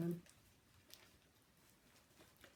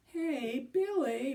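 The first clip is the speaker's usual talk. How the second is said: hearty quavering; 4 semitones higher, 5 dB louder, much slower than usual. Acted. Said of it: "in a hearty, quavering voice".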